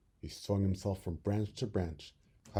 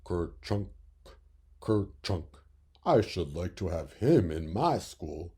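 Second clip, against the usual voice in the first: frog croak; 2 semitones lower, slower than usual. Acted. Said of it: "said the frog".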